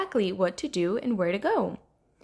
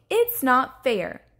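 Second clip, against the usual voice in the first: slow, emphatic complaint; sulky protest; 3 semitones higher, 4 dB louder, slower than usual. Acted. Rainbow Fish refusing to lose, sulky protest. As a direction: stretch out the grievance.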